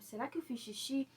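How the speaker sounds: hushed, worried thinking aloud; half-voiced as if to herself; a soft, puzzled question to herself; quiet inner thought. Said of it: "Eu pensei assim".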